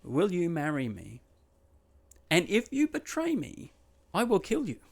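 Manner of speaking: lightly voiced menacing suitor, rising high on the threat; sweetly ask, then threaten with a mock edge; mock menacing proposal. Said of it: "but he says".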